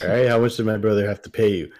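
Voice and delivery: loud, fast, accusing. Retold or imitated. Acted quote, accusing friend.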